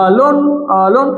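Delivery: "alone" said as a, then lone; split at the hyphen. Shown as a demonstration. Teacher showing where the hyphen goes, "alone" split as a-lone. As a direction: break "alone" after its first vowel. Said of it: "একটা hyphen দিয়ে দিব".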